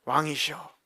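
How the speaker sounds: ordinary talk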